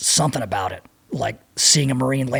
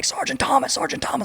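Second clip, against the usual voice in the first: mock urgent call, pitched up very high; 12 semitones higher than usual. Retelling yelling at a frozen sergeant to wake him: retelling a yell. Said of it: "And I was yelling at him".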